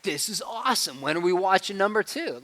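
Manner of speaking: put-on high, eager boy voice; thrilled seven-year-old, lightly played; excited kid. Son after Spider-Man, mildly excited kid voice. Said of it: "My son at seven was like".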